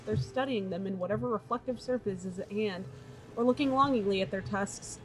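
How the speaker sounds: dark elf voice. Acted. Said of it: "I'm doing that voice like I'm a dark elf who talks".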